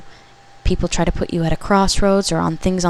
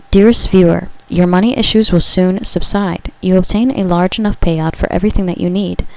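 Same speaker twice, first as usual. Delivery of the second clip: channeled message reading; 4 dB louder than usual. Acted. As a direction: read it like a prophecy to the viewer. Reads a channeled message aloud.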